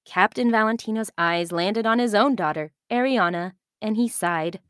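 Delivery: put-on calm storyteller reading to children; story narration. A narrator's reading. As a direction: tell it like a bedtime story. Narration continues.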